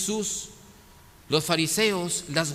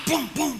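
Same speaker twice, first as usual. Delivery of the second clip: higher, sung-out pum pum like banging pans; pot bangs; 9 semitones higher than usual. Retold or imitated. Preacher imitating a mother banging pans, high sung pum pum. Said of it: "suenan más fuerte".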